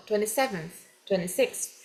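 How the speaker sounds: "twenty-seventh" and "twenty-six" each ending in an f-like TH. Shown as a demonstration. Teacher echoes the recording's ordinals, TH endings. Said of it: "esse T H no final".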